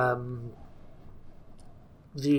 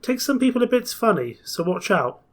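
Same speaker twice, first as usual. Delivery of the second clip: higher-pitched guard's warning; acted guard, pitched up then dropping; 7 semitones higher than usual. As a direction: warn the passengers as the train guard. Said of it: "he warned".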